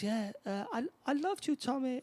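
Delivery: retelling a film's villain posing as father; mock tender father. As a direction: play the father pleading sweetly, high up. Dying father voiced in retelling.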